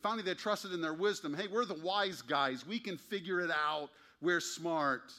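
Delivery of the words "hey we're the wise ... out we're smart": slow, cocky and louder; smug boasting. Retold or imitated. Proud nation bragging of its wisdom, slow and cocky. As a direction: strut it like the wise guys.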